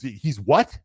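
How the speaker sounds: mock incredulous question; disbelieving. Craig to referee after being stopped, disbelieving. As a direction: imitate a fighter caught off guard.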